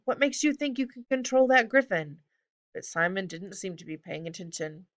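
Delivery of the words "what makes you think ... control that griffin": high, incredulous call after someone; shouted. A narrator's reading. Jared challenging Simon about the griffin, mild shout. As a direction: raise the pitch, only moderately loud. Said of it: "Jared shouted".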